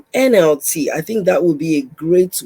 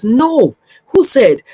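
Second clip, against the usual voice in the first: higher, louder defiant challenge; indignant, raised-voice retort; emphatic rebuttal; 6 semitones higher, 4 dB louder, much slower than usual. Acted. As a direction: push back firmly on the objection. Rebuts an imagined objector emphatically.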